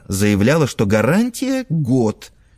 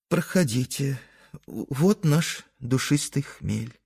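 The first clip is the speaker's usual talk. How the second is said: soft, slow sniffly mother; sniffling; 4 semitones higher, 5 dB quieter, slower than usual. Acted. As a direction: sniff through the words sadly. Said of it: "шмыгнув носом".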